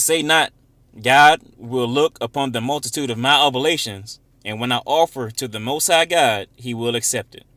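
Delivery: loud, emphatic verse reading; scripture reading. Acted. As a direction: read the scripture out with force. Reads scripture aloud.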